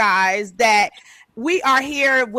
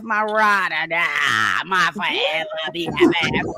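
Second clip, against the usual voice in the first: gushing hype; 3 semitones lower than usual. Real, not acted. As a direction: hype up your best friend, stretching the words. Host hypes up best friend.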